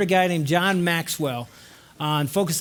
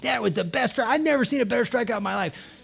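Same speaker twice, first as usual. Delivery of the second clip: higher-pitched cheer without real volume; raised-pitch imitation of a proud uncle screaming; mock scream; 5 semitones higher than usual. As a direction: cheer him on in a restrained mock yell. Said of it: "John again stands up and screams".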